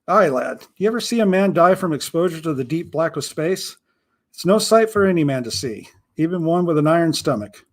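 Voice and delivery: a hint of an old pirate explaining the grim routine; understated pirate, matter-of-fact about death; lightly voiced grim pirate.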